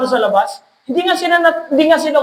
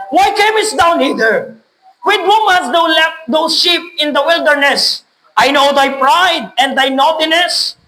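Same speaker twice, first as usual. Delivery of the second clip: angry brother; slower than usual. Acted. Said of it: "Nagalit siya kay David".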